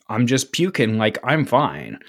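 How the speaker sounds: low, nonchalant mock toddler; unbothered. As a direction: shrug it off, imitating an untroubled kid. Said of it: "not even disturbed".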